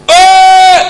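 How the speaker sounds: loud, high, projected holler; shout from the belly. Shown as a demonstration. Preacher shows how a shout leaves the mouth, ringing yell. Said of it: "itu bisa saya lakukan kalau saya kumpulkan sini suara".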